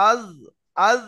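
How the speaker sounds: আজ with both lips thinned; thin lips demo. Shown as a demonstration. Teacher contrasting thin-lipped আজ for students. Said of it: "ঠোঁট দুটো বারিক হবে".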